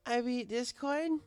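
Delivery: high, slow slurred boasting; gloat, sloppy and proud; high, slow drunk mare boasting; drunk bragging. Acted. Smashed Twilight bragging.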